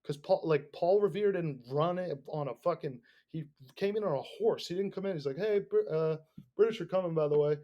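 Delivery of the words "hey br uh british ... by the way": casual, hesitant mock announcement; without conviction. Host imagines a timid messenger warning town, without conviction. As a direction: toss it out like an afterthought. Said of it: "but without conviction".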